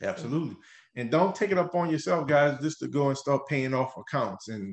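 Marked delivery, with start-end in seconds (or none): 1.0-4.5 carried away, words running on; talking too fast. Real, not acted. Co-host getting into a groove while advising listeners, talking too fast. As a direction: get into a groove and rush the advice. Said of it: "you talking too fast".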